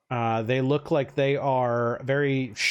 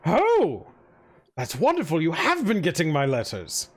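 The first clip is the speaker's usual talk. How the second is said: gushing mayor. Acted. Mayor greets a newcomer at his party, lightly fawning. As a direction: play the flattering host, lightly.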